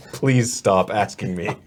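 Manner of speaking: loud, slow, strained plea; exasperated Jesus. Acted. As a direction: plead wearily under a heavy load. Jesus exasperated while carrying the cross.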